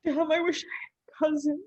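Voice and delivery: hushed, broken whisper. Acted. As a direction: whisper it like a secret. Asked again, whispered title.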